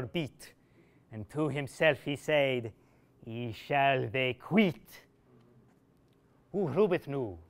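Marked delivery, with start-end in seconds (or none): 3.2-5.1 slow, low grim resolve; muttered vow. Acted. Absalom to himself, slow grim vow. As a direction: vow revenge through the teeth.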